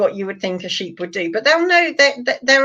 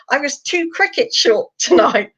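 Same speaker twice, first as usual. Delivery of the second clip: high, slow posh complaint; Spike; 5 semitones higher than usual. Acted. Bearded dragon grumbling about his short dinner, posh voice. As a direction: draw it out in a posh accent, amused. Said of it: "voice as being really posh".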